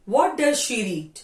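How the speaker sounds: very slow question, every word apart; careful teacher's model question; slow dictation. Shown as a demonstration. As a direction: read the question out for the class to copy. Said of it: "teacher dictating a question".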